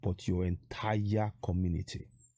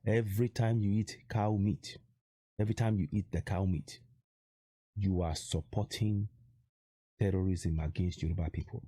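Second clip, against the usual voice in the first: slowly, for emphasis. Shown as a demonstration. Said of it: "Let me say that again slowly".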